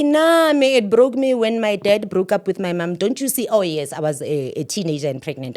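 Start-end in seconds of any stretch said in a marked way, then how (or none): 0.0-3.5 firm retort. Retold or imitated. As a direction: push back hard on his excuse. Retorting to the relative's claim.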